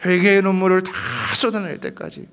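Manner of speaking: high, loud mounting cry; rising preaching cry. Real, not acted. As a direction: build it to a climax. Building climactic cry. (높고 크게 고조되는 외침)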